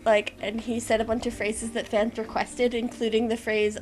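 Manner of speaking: ordinary talk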